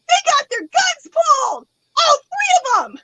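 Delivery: high, drawn-out panicked cry; retold freaking out. Telling dispatcher about three cops, high panicked wail. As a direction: wail it in dramatized alarm, stretching words. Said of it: "why I was freaking out".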